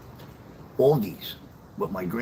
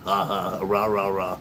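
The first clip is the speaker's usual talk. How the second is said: mock laugh. Mock laugh noises before real laugh.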